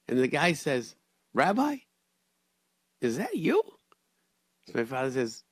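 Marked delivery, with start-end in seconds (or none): 1.3-3.6 high, loud surprised call; calling out in glad surprise; high excited greeting through the car window; surprised recognition. Retold or imitated. Surprised man recognizes rabbi.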